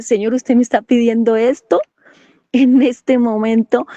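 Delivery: retold incredulous question, slowing at the end; incredulidad divertida. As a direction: question it in disbelief, lingering on the last phrase. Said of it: "yo solté la carcajada". (pregunta incrédula, relatada)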